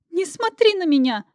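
high shrieking plea; high squeal of shame. Acted. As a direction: squeal it, hiding your face. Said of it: "взвизгнула я".

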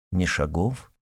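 usual speaking voice

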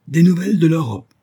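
high, loud astonished outburst; exclaiming. A narrator's reading. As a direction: cry out in indignant disbelief. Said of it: "s'écria-t-il".

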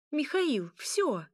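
high, sharp order to stop; snarled command. A narrator's reading. Young princess halts the fighting vampire, snarled command. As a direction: put your foot down angrily. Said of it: "рыкнула она".

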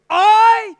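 loud, slow self-accusation; emphatic confession. Real, not acted. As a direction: slowly hammer out each word of it. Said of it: "the truth dawned on me".

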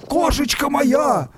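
high, slow wailing plea; mournful call. Acted. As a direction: grieve aloud for the cat, slow and high. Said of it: "скорбным голосом позвал".

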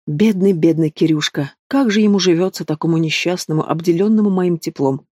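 drip sarcasm over each word; venomous mockery. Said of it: "ядовито спросила я".

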